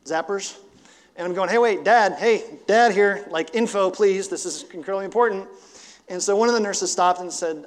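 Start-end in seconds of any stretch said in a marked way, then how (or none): 1.5-5.5 urgent dad plea. Retold or imitated. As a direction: push in as the worried father. Father pleading with ER staff.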